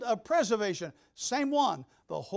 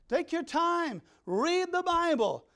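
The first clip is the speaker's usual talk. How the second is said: emphatic urging; 6 semitones higher, 3 dB louder, slower than usual. Real, not acted. Preacher urging the congregation.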